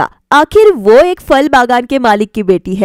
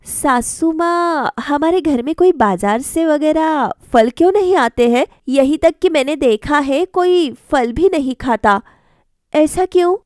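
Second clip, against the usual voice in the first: put-on higher, earnest young bride's voice; young wife Sangeeta; 4 semitones higher than usual. Bride questions mother-in-law about fruit, higher girlish voice. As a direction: ask your mother-in-law gently, pitched up.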